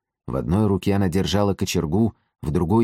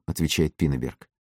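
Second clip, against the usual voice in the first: usual speaking voice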